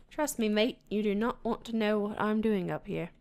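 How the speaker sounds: leicht angedeuteter australischer Akzent; bad Australian accent. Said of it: "That was a terrible, terrible accent".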